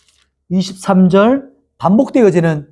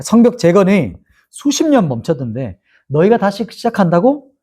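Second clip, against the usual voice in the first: lightly imitated scorn, lifting into a high question; a hint of a jeering critic, pitch climbing at the end; mild mocking disbelief; 3 semitones higher than usual. Critics scoffing at builders restarting the wall, mildly mocking. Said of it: "이렇게 조롱하는 비난들".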